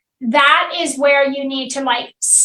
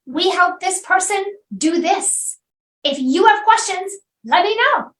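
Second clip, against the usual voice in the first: light, higher, easy delivery; simple and clear; 4 semitones higher than usual. Shown as a demonstration. Coach demonstrating the ideal pitch, simple and clear. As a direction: keep it short and breezy. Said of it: "just be clear".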